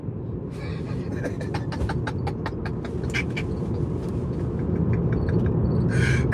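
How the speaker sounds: soft, breathy, drawn-out laughter; long wheezy laugh. Real, not acted. After scolding Shannon, long wheezy laugh. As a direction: wheeze with laughter, barely any voice.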